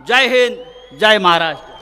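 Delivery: shouted rally slogans. Real, not acted. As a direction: roar the closing slogans.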